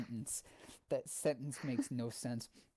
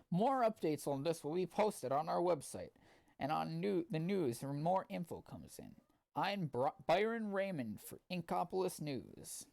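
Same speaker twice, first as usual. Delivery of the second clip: news reporter; 5 semitones higher than usual. Acted. Reporter signing off.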